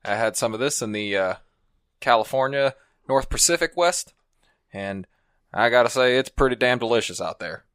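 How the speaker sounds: easygoing cowboy storyteller. Pretend. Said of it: "Do a cowboy thing".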